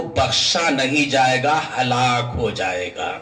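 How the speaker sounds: low, sinking pronouncement; low-pitched verdict, descending; grave warning. Real, not acted. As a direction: let the pitch fall heavily to the end. Preacher pronounces the warning first time.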